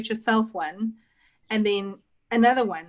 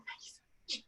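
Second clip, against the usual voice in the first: higher, gushing thank-you in an odd put-on voice; mock gushing thanks; 8 semitones higher, faster than usual. Baker retelling her thanks to the customer, lightly voiced gushing. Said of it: "I'm like".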